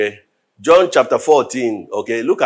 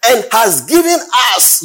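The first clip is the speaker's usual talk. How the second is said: high, slow ringing scripture reading; solemn preached reading; preaching scripture; 7 semitones higher than usual. Acted. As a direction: declaim the verse from the pulpit.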